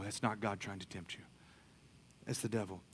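ordinary delivery

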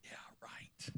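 whispered dry aside; a whispered yeah right; sarcastic whisper. Real, not acted. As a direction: breathe it out, doubting.

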